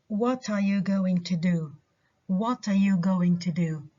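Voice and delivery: "what" and "do" stressed, "are you going to" unstressed. Shown as a demonstration. Teacher modelling a question, stress on "what" and "do". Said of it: "ال stress جاي على what و do".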